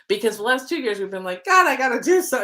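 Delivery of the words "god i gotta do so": pressured outburst, slightly higher and louder; retold exasperated push; arduous urgency. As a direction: act out feeling driven to get something done. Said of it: "been this arduous feeling".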